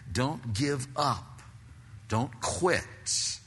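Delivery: whispered urging. Real, not acted. Urging the congregation.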